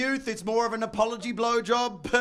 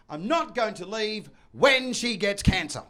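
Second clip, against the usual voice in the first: measured, matter-of-fact promise; mild reassurance; 2 semitones lower than usual. Acted. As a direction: reassure her in an everyday voice. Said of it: "to reassure my wife".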